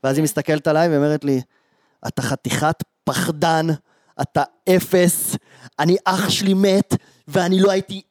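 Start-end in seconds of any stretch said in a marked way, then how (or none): 2.1-8.0 mock angry outburst. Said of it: "מתחילה לעוף עליי".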